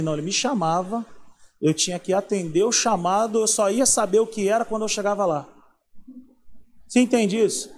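ordinary talk

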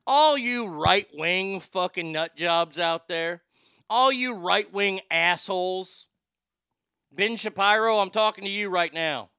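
slow, loud call-out. Real, not acted. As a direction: point at them and call them out. Calling out right-wing listeners.

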